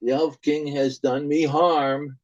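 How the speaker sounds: put-on a scared boy crying out that he is being touched; terrified child. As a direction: plead with father in terror. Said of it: "And the son says".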